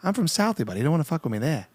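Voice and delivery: put-on Southie tough-guy Boston accent. Comedian as a Southie local warning an outsider, Boston accent. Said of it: "like, Boston accent".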